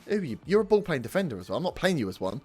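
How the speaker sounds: angry rant. Real, not acted. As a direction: tear into the defender. Ranting at defender.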